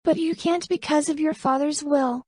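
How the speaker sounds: defiant retort. Acted. Camelia retorts, voiced high.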